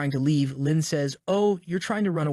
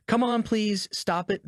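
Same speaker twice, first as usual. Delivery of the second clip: higher, frantic begging; panicked plea; 5 semitones higher, slower than usual. Acted. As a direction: beg as the saw comes closer. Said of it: "the guy pleads as the saw approaches".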